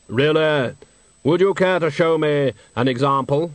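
Death's voice. Acted. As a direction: speak as grave, patient Death. Death speaks.

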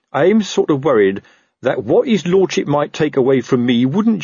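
fretful sergeant spelling out the danger; worried Sergeant Colon. Acted. Sergeant explaining risks to his friend, worried character voice.

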